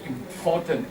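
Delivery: "Important" with an open POR syllable; corrected "important". Shown as a demonstration. Teacher models the word, "Important" with a full POR. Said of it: "We say".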